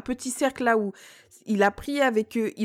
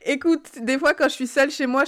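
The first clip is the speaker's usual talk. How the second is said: ordinary delivery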